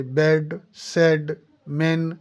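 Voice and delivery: बेड, सेड, मेन with an e, not ee; exact e sound. Shown as a demonstration. Teacher warning not to compare with ee, e vowel in बेड, सेड, मेन. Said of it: "इसकी exact pronunciation है".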